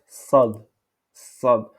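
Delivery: "sad" with heavy emphatic Arabic s; doubled-weight s in "sad", open a; lettre sad. Shown as a demonstration. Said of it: "cette lettre en arabe prononce". (« sad » avec s emphatique arabe)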